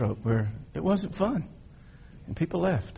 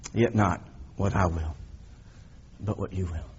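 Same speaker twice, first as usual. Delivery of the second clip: anguished prayer; 3 semitones lower, 3 dB quieter than usual. Retold or imitated. Jesus praying before his death.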